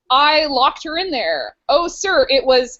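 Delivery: lightly hammed-up Cockney servant; mock Cockney maid. Maid reporting to sir, mock Cockney accent. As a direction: read it as a playful Cockney maid. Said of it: "like, really Cockney or something".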